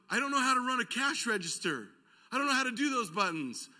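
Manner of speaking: high-pitched, lightly imitated tearful wail; mock crying. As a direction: act out a big guy's upset confession. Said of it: "and he starts crying".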